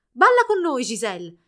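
put-on high, loud child's call; little girl shouting. A narrator's reading. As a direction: invite her excitedly like a small girl. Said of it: "gridò una bambina".

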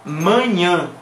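Mañana as two nasal syllables; nasal Portuguese manhã. Shown as a demonstration. Teacher echoing the correct word, nasal vowels. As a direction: say Mañana as manhã through the nose. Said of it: "no, es mañana".

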